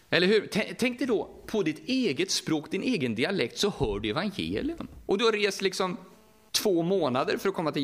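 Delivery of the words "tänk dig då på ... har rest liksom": normal talking voice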